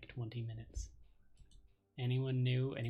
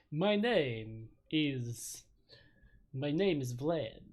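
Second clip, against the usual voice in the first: dazed vampire voice; 2 semitones higher, 6 dB louder, much slower than usual. Acted. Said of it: "hard to do a vampire voice for very long".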